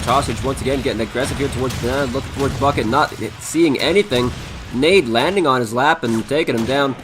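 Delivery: fast, lively play-by-play; esports caster. Acted. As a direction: call the round live, energetic. Live play-by-play of the round.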